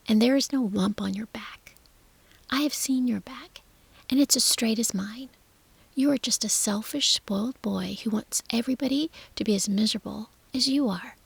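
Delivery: put-on sharp whispered scolding girl; blunt scolding. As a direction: tell him off, cold and firm. Mary scolds Colin bluntly.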